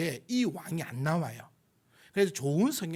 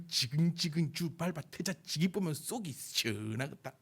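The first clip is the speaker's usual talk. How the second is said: imitating exasperated mother; 4 dB quieter than usual. Mother venting at her child, mock exasperation in Gyeongsang dialect. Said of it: "제 어머니가 저한테 자주 했던 얘기가".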